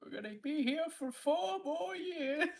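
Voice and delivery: chewing while talking. Real, not acted. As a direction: mouth full of food. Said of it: "Sorry, I was chewing".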